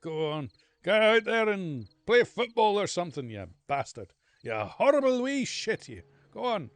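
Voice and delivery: high, loud mock shouting; teacher dismissing the boy in a rage; angry teacher. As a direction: yell it like a furious Scots-Irish PE teacher. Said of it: "and he'd go".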